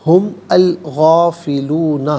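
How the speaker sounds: ہم الغافلون chanted slowly and loud; joined slow recitation. Shown as a demonstration. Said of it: "ملا کر پڑھیں گے".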